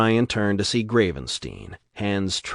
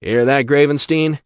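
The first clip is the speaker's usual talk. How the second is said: sneer; 6 semitones higher, 8 dB louder than usual. Acted. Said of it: "Shep sneered".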